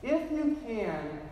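drawn-out, lightly voiced appeal; father's conditional request. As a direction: say it slowly as a request, falling at the end. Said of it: "the boy's father had said".

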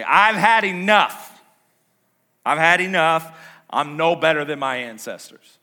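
exasperated outburst, acted; fed up. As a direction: cry out like a prophet who's done. Acting Elijah's fed-up complaint.

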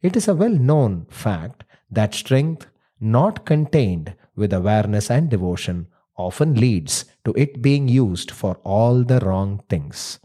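measured storyteller voice; story narration. A narrator's reading. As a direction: tell the old legend gravely. Narrates the myth.

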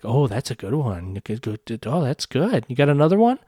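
imitated mocking taunt, rising at the end; antagonistic. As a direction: goad them with fake approval. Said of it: "being antagonistic".

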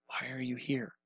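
very soft, hushed voice; whisper. Retold or imitated. God questioning Elijah on the mountain, hushed whisper. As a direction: drop right down to a near-whisper. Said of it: "And the whisper says".

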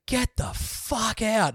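high, slow pilot's order; slowly mock the pilot barking the order; imitating the pilot. Pilot orders them out, emergency.

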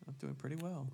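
blocked nose, speaking through congestion; stuffy nose. Real, not acted. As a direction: talk like your nose is stuffed. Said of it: "You sound, you sound stuffy".

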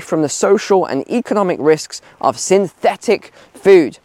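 a light, hammed-up Italian accent; terrible Italian accent. Vlogger reading the Italian minister's statement, light mock Italian accent. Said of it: "my terrible Italian accent".

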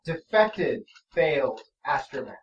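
level flat monotone; deadpan robot verdict. Acted. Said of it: "same flat monotone voice".

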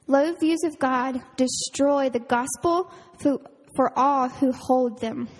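a quote read aloud with gravity; slow quote reading. Shown as a demonstration. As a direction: read slowly, weighing each word. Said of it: "So it says".

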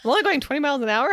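fast, hammed-up imitation of a racer; Ricky Bobby. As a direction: toss it out fast and high. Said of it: "And he's like".

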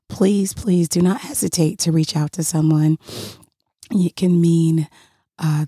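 hoarse, with a frog in the throat. Real, not acted. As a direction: talk through a froggy, hoarse throat. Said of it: "Thank you for bearing with my frog voice".

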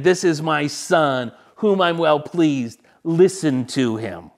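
booming heavenly proclamation, unhurried; proclaiming God's voice. Acted. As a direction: announce it with solemn weight.

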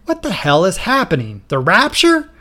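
high, loud raging question. Acted. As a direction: rage and shoot up high on the last word. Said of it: "President Smith raged".

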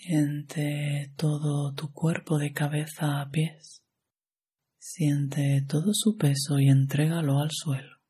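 calm, even meditation guide with long pauses; measured yoga nidra instruction, phrase by phrase; guided meditation. Acted.

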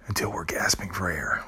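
breathy whisper. Real, not acted. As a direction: whisper it hushed. Whispered dramatic close.

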